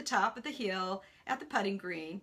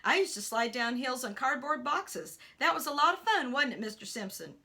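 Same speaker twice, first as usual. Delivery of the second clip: put-on jolly older man reminiscing; chuckle in voice; 4 dB louder than usual. Man tells boy of childhood sliding, jolly tone. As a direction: start loud and amused, then settle. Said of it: "with a chuckle in his voice".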